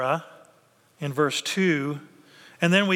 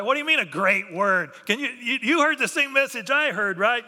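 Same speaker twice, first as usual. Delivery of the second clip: incredulous half-laughing protest, pitch up; eye-rolling disbelief; 5 semitones higher than usual. Retold or imitated. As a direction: scoff at the servants with a laugh in the voice. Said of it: "Rolling his eye".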